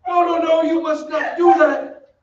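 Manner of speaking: madman's laughing cry; manic laughing plea. Acted. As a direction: plead with her through unhinged laughter. Phantom losing control with Christine.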